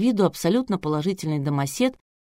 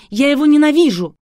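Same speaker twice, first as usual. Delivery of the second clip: much higher, much louder screamed hatred; hysterical scream; 9 semitones higher, 10 dB louder than usual. A narrator's reading. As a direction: scream it at the top of your voice. Hysterical bride screaming on air.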